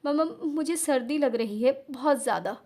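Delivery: stammering through mild hiccups; teary, halting complaint of cold; hiccuping sobs. Acted. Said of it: "हिचकियाँ लेते हुए". (हिचकियाँ लेती रुआँसी आवाज़)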